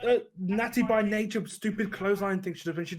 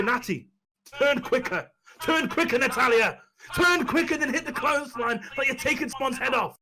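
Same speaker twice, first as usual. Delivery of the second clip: exasperated coaching; 5 semitones higher than usual. Acted. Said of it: "And say".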